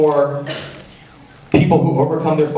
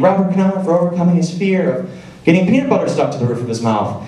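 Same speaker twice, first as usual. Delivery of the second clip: mock announcer; 5 semitones higher, faster than usual. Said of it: "The person calls my name".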